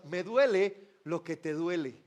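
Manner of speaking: "duele" drawn out, slow and low; tender. Acted. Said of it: "está diciendo con esas lágrimas". ("duele" lento y tierno)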